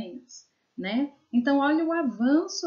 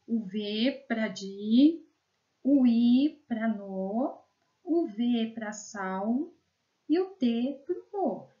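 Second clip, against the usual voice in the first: sounding out syllables; slower than usual. Shown as a demonstration. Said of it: "teacher sounds out syllables".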